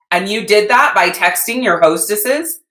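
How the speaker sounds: pointed question, making her see it herself; mentor asking. Retold or imitated. Mentor checks how she made her sales, lightly voiced. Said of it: "And she goes".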